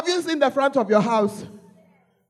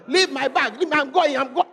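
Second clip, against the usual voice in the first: mock indignant protest; 4 semitones higher than usual. Acted child storming out of home.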